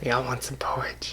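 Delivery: very soft, low whisper; creepy mock whisper. Prankster offering porridge through a mail flap, creepy whisper. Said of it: "whispering the thing".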